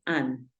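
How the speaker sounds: "an" with an open A sound. Shown as a demonstration. Teacher showing first syllable, U sounded as A. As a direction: say "an" with a Spanish-like A. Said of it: "suena como una A".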